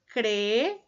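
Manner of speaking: "Cree" as the first syllable of crear, vowel held long; syllable split. Shown as a demonstration. Teacher separating crear into syllables, "Cree" held long. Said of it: "en dos sílabas diferentes".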